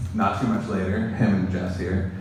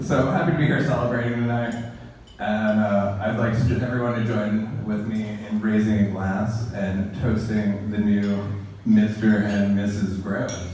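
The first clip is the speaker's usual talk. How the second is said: wedding toast speech; 4 dB louder than usual. Acted. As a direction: raise a glass to the couple. Raising glasses toast.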